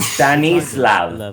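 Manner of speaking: Stanislav said slowly with a v at the end; Stanislav, ending on a rising tune; corrected name pronunciation. Shown as a demonstration. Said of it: "mispronunciation of his name".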